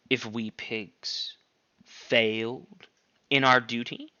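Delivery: lightly voiced pig, slow and coaxing; persuasive Squealer. Squealer justifying the pigs to the animals, slow coaxing. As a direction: talk them round, slow and smooth.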